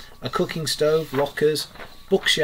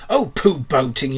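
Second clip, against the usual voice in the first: a loud disgusted pooh-pooh; great disgust; 5 dB louder than usual. Acted. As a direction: spit out the word boating with contempt. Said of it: "in great disgust".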